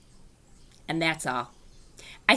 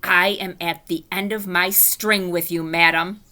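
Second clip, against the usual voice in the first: growly; 5 dB louder than usual. Acted. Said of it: "I made my voice very growly".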